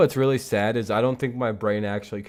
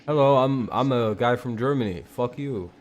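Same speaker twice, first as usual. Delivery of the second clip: badly faked German accent; amateur attempt at sounding German; 3 semitones higher than usual. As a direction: put on a rough, joking German accent. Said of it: "wanna hear my German accent".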